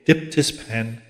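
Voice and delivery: usual speaking voice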